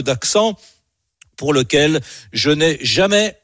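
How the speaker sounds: lightly put-on Gascon accent for a recited poem; Gascon accent, imitating uncle. Reciting his farmer uncle's poem on the radio, Gascon accent. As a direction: recite verse like an old Gascon countryman, phrase by phrase. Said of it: "je vais essayer de le faire comme lui".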